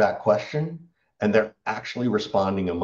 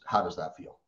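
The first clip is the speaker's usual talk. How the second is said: soft delivery; 5 semitones lower, 7 dB quieter than usual. Shown as a demonstration. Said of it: "all-time favorite question is".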